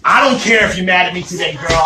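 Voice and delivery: usual speaking voice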